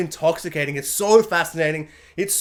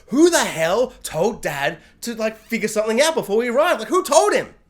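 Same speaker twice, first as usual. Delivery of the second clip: indignant Siobhan; 4 semitones higher than usual. Retold or imitated. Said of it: "Siobhan being like".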